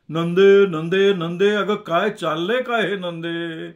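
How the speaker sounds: loud stern call of her name, then a slow rebuke; scolding. A narrator's reading. Anna scolds Nande for her laughing fit, stern and loud. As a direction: rein her in sharply like a stern father. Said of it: "अण्णांनी तिला चापलं".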